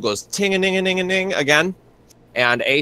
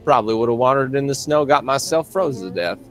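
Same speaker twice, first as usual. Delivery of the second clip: lightly voiced friendly backwoods fella, easygoing; a hint of a folksy stranger, unhurried welcome; folksy country mechanic. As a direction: play a chummy small-town grease monkey. GM voices Judas.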